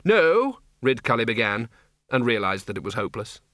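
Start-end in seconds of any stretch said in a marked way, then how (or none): 0.1-0.6 a sharp halting shout; loud high "No". Acted. Ridcully trying to stop the charging wizards, calling out. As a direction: call out to stop them.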